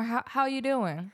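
slow, drawn American "How you doing?"; American accent. Shown as a demonstration. Daughter coaching mum's accent, slow American. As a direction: coax it out like a New Yorker. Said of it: "Or a bit more".

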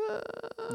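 drawn-out quiet "uhhh"; long droning groan. Retold or imitated. Imitating the old dude at the wall, quiet vacant drone.

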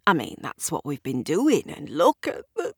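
choked up; voice cracking. Acted. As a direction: voice breaking with emotion. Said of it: "his voice cracks".

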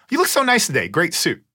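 high-pitched imitation of an admiring executive; effusive compliment. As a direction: lift the voice high to act out a compliment.

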